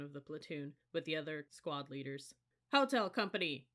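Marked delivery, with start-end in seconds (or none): 2.7-3.7 loud barked company call; yelled command. A narrator's reading. First sergeant calling the company, loud yell. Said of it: "yelled First Sergeant Stockel".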